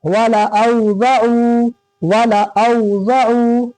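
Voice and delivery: वाला औज़अू with वाला kept short and the ending held; slow, measured recitation of वाला औज़अू; correct recitation. Shown as a demonstration. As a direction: recite वाला unstretched, then draw out औज़अू. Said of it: "ये गलत है".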